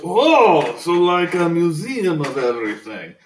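light up at the museum idea; surprised boss. Acted. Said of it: "And he goes".

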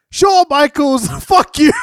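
laughing mock yell. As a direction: bark it out while laughing. Mocking wrestler's interview answer.

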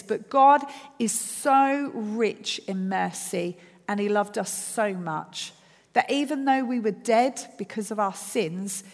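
slow, deliberate reading aloud; scripture reading. Acted. Preacher reading Ephesians to the church, slow and resonant. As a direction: read it out nice and loud, measured. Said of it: "I'm gonna read it nice and loud".

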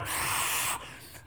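long blown-out whoosh of wind; mimicked wind noise; imitated gale. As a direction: blow hard like a howling storm. Imitates weatherman battling wind.

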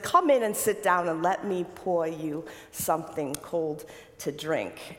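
a light New Jersey accent, lightly voiced; a hint of a New Jersey nun inviting guests in. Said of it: "I think I'm speaking in a New Jersey accent".

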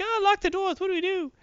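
high, yelping mock panic; panicky captain. Captain freaks out during the firefight, high mock panic. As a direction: flap like a captain who has lost his nerve. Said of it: "captain is kind of freaking out".

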